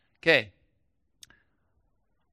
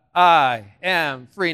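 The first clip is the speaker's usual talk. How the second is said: slow declaration; 3 semitones lower, 5 dB louder, much slower than usual. Shown as a demonstration. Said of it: "Say that out loud".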